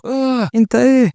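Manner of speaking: high, drawn-out cry of shock; mock frightened scream. A narrator's reading. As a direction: recoil in horror, voice leaping high. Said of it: "وتشوف شكله تصرخ".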